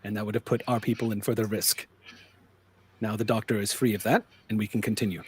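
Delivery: soft, measured justification; lightly voiced cool, matter-of-fact leader; composed leader. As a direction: explain it quietly, without emotion. Plays composed Nakamura.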